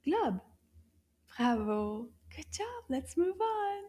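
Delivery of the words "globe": "Globe" said short and quick; a little faster. Shown as a demonstration. Teacher has children say it together, "Globe" a little faster. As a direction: say "Globe" briskly in one quick beat. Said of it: "Now let's say it a little faster".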